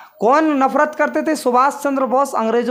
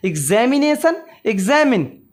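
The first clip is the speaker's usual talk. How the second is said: read aloud together; 2 semitones lower than usual. Shown as a demonstration. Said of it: "मेरे साथ पढ़ो".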